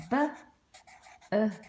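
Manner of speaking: B-O-O-K drawn out slowly; slow dictation to pupils; slow spelling. Shown as a demonstration. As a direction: spell it out slowly as you write. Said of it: "double O making the short uh sound".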